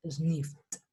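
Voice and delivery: "sniffed" said esnift, one final t. Shown as a demonstration. Teacher modelling the correct form, T ending. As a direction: end "sniffed" on ft, no e. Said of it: "Todos con una T al final".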